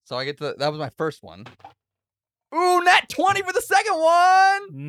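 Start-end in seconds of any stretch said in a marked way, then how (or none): 2.5-4.9 much higher, louder and slow; thrilled cheer at the dice; excited. Real, not acted. Player rolling a natural twenty, excited cheer.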